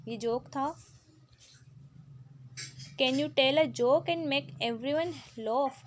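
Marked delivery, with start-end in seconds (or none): 3.0-5.8 slow, deliberate reading of an English instruction; slow textbook read. Acted. Teacher reads the book's question to pupils, slowly. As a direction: read each word out slowly for the class.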